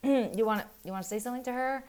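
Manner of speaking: an uneasy dad prompting; awkward husband. Retold or imitated. Husband nudging daughter to speak, awkward and hesitant. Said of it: "the husband's like".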